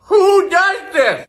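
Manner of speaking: high, loud and slow disbelieving shout; outraged shout. Real, not acted. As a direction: yell it in stunned disgust at the taste. Outraged reaction tasting caviar.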